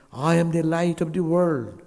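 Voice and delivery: solemn, ringing proclamation; Christ proclaiming. Retold or imitated. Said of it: "Christ said".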